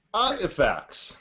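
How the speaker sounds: slow laughing artifacts. Pretend. Mark slowly repeating artifacts for Alex, laughing. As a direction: drag it out, cracking up. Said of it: "slow down for you".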